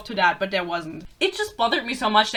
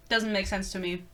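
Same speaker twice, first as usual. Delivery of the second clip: low, soft aside to oneself; quiet repeat; 4 semitones lower, 8 dB quieter than usual. Real, not acted. Reviewer puzzled by New York rent, quiet low repeat. Repeats remark lower and softer.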